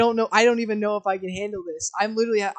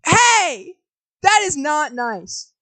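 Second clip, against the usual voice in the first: high, loud "hey" at chat; sharp call-out; 6 semitones higher, 5 dB louder, much slower than usual. Real, not acted. Streamer reacts to chat teasing.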